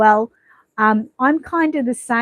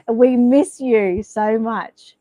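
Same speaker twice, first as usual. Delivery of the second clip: slow, sincere and a little louder; heartfelt and slow; 4 dB louder, much slower than usual. Real, not acted. Streamer to absent viewer Angela, slow and sincere. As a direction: stretch it out so she feels missed.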